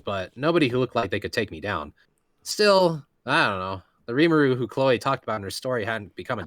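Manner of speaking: steady first-person reading; story narration. Acted. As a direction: read it like a novel's narrator. Reads novel narration aloud.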